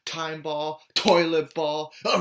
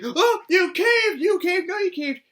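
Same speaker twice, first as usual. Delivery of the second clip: mock taunt; 4 dB louder than usual. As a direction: drag it out to rub it in. Teasing taunt in show.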